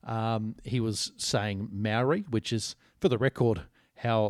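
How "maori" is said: put-on Maori said the old Australian way, rhyming with "dowry"; flattened, anglicised "Maori"; anglicised pronunciation. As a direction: say Maori as an Aussie would, not as in te reo. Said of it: "not pronouncing the word Maori properly".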